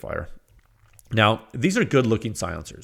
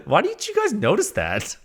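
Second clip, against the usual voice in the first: laughing disbelief; 9 semitones higher than usual. Real, not acted. Laughing exasperated question to viewers.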